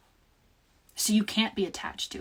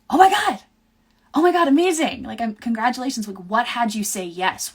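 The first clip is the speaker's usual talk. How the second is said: high, loud burst of joy winding down; excited squeal; 4 semitones higher, 8 dB louder than usual. Retold or imitated. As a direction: shriek with delight at the news. Friend's engagement reveal.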